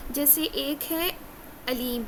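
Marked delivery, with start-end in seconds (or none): 1.7-2.0 علیم begun with a plain alif a, no throat squeeze; alif pronunciation. Shown as a demonstration. Teacher introducing the first of two look-alike words, alif pronunciation. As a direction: say علیم with an open glottal a. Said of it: "الف سے لکھا ہوا ہے".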